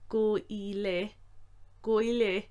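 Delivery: slow, careful Irish phrase; said slowly. Shown as a demonstration. Teacher repeating the slow form. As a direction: spell Go i le out slowly. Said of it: "slowly said".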